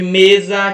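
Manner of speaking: "mesa" with a loud, strong "me"; stress on first syllable. Shown as a demonstration. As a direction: lean on the "me" of "mesa". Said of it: "a mais forte é me". ("mesa" com a sílaba "me" mais forte)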